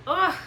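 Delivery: high, short frustrated "ugh"; playful groan of overload; exasperated groan. Acted. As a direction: let out an exasperated noise. Exasperated at her overworking brain.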